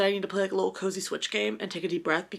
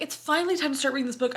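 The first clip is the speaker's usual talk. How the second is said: higher, faster hammed-up announcement; mock dramatic; 6 semitones higher, faster than usual. Teasing herself about her dramatic start, mock grand. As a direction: replay your own line as a big dramatic moment. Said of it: "I'm so dramatic".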